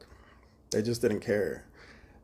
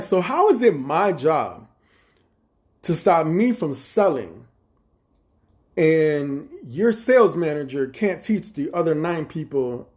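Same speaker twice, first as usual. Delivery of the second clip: indignant; 2 semitones higher, 4 dB louder than usual. Retold or imitated. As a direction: press each word, insisting it is not your fault. Arguing blame with manager.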